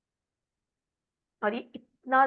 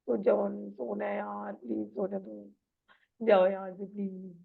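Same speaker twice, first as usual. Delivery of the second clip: irritated and sleepy. Shown as a demonstration. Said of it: "मतलब irritate हो रहे हो अब कि".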